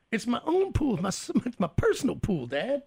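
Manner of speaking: put-on high, defiant little kid; whiny kid voice. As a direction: protest like a stubborn child.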